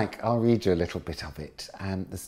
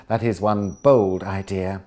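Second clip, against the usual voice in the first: incredulous; 8 dB louder than usual. Acted. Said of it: "with an incredulous laugh".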